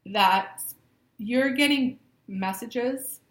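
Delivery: can barely get it out for laughing; breathless laughing. Real, not acted. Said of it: "I can't even breathe right now".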